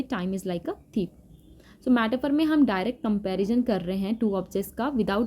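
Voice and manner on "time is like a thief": time is like a thief, said very slowly and softly, word by word; slow, careful example. Shown as a demonstration. Teacher slowly reading the simile example to students. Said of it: "simile में ... हम बोलेंगे".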